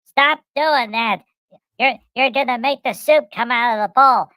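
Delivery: a wife's sharp scold at the table; Sandra scolding. Retold or imitated. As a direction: tell him off loudly. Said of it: "and Sandra says".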